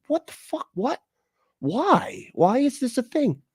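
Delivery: high-pitched what the fuck; exasperated disbelief. Real, not acted. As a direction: squeak it out in disbelief.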